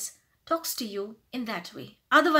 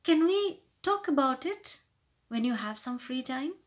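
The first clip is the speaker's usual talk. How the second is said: humble polite request; 2 semitones higher than usual. Shown as a demonstration. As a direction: ask tentatively for a chat. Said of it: "try to sound more humble".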